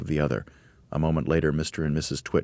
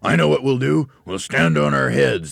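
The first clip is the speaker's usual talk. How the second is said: raised, loud, eager voice; excited cry; 8 semitones higher, 6 dB louder than usual. A narrator's reading. Mr Twit proposes a headstand to his wife, crying out. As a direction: announce the scheme triumphantly. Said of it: "cried Mister Twit".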